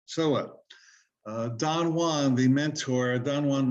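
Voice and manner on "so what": higher sing-song nyah-nyah, lightly mocking; a light childish jeer, pitched up; mocking taunt. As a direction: tease like a nagging inner voice. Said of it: "that little voice going".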